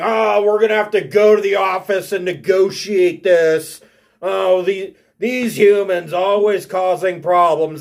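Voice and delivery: proud, blustering, blustery proclaiming tone. Retelling how he turned around and proudly proclaimed; mock-proud blustery proclaiming. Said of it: "he leans over his shoulder and he whispers".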